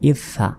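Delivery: ইস সা as is-sa, s sounded twice; doubled consonant. Shown as a demonstration. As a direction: hold the s of ইস into সা. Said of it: "দুইবার উচ্চারণ হবে". (ইস সা, স দুইবার)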